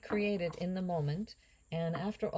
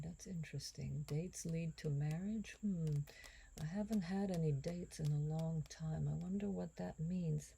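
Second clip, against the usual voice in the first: soft unvoiced musing, much softer; amused whisper to herself; 6 dB quieter than usual. Real, not acted. To viewers about her love life, a soft private whisper.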